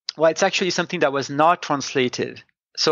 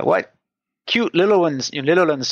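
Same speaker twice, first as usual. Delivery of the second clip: rural folksy; 3 semitones higher than usual. Retold or imitated. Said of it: "what you find in rural speech".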